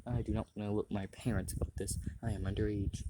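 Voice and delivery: quiet, hushed talk; keeping voice down. Real, not acted. Speaker hushing so parents won't hear, quietly. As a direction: keep it low so nobody overhears. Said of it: "Sorry if I'm being quiet".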